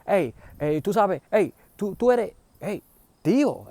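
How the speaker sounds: high, loud, excited hey across the station; excited calling out. Retold or imitated. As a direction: call him over in joyful recognition. Recognizing uncle, calling across.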